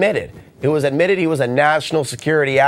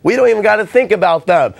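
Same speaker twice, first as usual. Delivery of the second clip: mock ignorant citizen; 3 semitones higher than usual. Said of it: "in this country".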